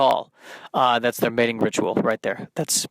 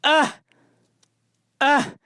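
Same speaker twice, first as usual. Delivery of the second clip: high bird squawks; imitating a morning bird's high squawk; bird cry; 12 semitones higher, 3 dB louder, slower than usual. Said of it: "all it was doing was going".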